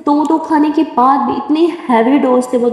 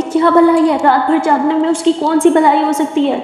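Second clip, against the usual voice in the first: higher, challenging questions; indignant argument; 4 semitones higher than usual. Acted. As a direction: demand an answer from her. Simran arguing with mother.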